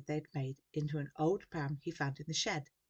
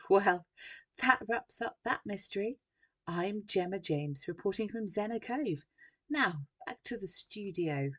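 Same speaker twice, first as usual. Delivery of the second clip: slightly raised TV reporter voice; forced-cheerful sign-off; 3 semitones higher, 4 dB louder than usual. A narrator's reading. Journalist closing her live report, forced cheer. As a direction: wrap it up brightly for the camera. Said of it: "With a fake little giggle".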